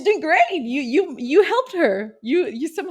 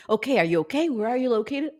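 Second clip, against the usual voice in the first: dispatcher voice; faster than usual. Pretend. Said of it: "I can imagine the call".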